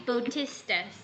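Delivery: Bautistas said as boh-TIS-tuhs; teacher showing how to say Bautistas, boh-TIS-tuhs; pronunciation demo. Shown as a demonstration. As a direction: model Bautistas with "boh" first and stress on TIS. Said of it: "You have to pronounce it as".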